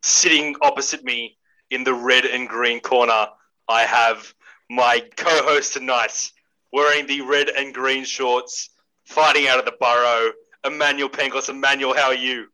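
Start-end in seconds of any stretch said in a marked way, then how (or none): 0.0-11.5 fight announcer. Acted. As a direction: introduce him like a title fight. Boxing-style intro of co-host.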